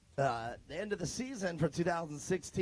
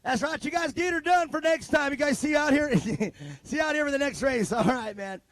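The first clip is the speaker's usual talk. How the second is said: hammed-up Southern country accent, higher and louder; 7 semitones higher, 7 dB louder than usual. Announcer sending the crew off in a hammed-up country accent. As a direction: play the good ol' boy cheering the crew on. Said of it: "I got a country accent there".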